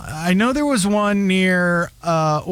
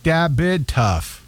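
put-on slow mumbled Wilmington teen slang; imitating teen's mumbled accent; much slower than usual. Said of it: "the way he says".

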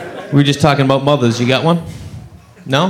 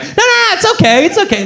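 mock soothing. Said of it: "And I'm like".

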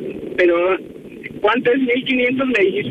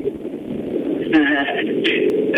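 laugh; 6 semitones lower than usual. Real, not acted. Told to hand over hotel money.

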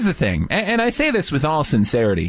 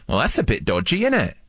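British accent. Shown as a demonstration. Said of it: "it's only appropriate that you learn".

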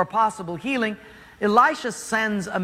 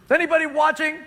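embarrassed high question; 8 semitones higher, 4 dB louder, faster than usual. Acted. Naaman embarrassed, acted.

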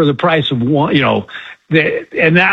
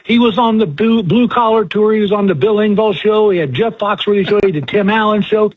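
stretched opening, then higher, emphatic listing; insistent older woman; 4 semitones higher than usual. Retold or imitated. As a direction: insist like an astonished fan, pitched up. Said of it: "And the lady goes".

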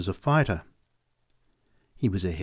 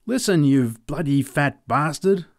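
yelled challenge; 4 semitones higher, 3 dB louder than usual. Acted. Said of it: "I yelled at him".

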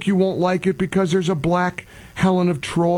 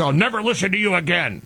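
quick mock quote; faster than usual. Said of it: "people say".

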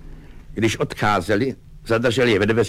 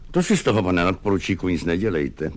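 soothing; faster than usual. Acted. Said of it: "snažil se ho upokojit".

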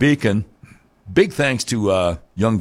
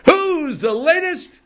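mock question; slower than usual.

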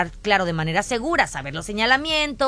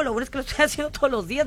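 risa nerviosa; much faster than usual. Real, not acted. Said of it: "me río de nervios".

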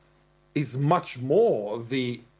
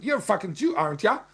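put-on broad Australian bogan accent, raised pitch; imitating an Australian bogan; 7 semitones higher, faster than usual. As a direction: repeat the Aussie bogan jeer. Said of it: "this kind of bogan accent".

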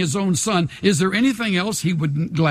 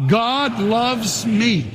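meaning it, slower and higher with weight on God; with conviction; 4 semitones higher, much slower than usual. Shown as a demonstration. Pastor urging congregation to mean it, earnest. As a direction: say God loves me like you truly mean it. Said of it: "Say it like you mean it".

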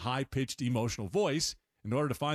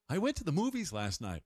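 put-on baby talk; 4 semitones higher than usual. Shown as a demonstration. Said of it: "not my imitation".

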